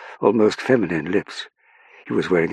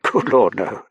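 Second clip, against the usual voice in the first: a touch of amused upper-class surprise; laughed dismissal; 6 semitones higher, 7 dB louder, slower than usual. A narrator's reading. Colville laughing off Saffron's question, lightly amused. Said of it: "Colville laughed".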